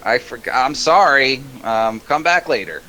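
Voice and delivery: high, laughing dithering gnome voice; high gnome apologising as he forgets; forgetful gnome. Acted. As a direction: lose the thought up high, half laughing. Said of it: "He's like".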